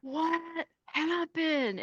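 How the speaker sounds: puzzled trainer. Retold or imitated. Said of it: "him looking down at me like".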